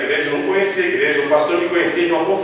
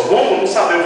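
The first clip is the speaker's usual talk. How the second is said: higher, louder puzzled protest; retold baffled reply; 6 semitones higher, 4 dB louder than usual. Worship band asked for the wedding march, retold baffled reply. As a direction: mimic caught-out musicians, pitched up. Musicians balk at the sudden request.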